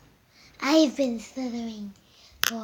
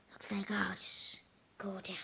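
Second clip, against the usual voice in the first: whispering; 3 semitones lower, 11 dB quieter than usual. Pretend. Sneaking away in the house.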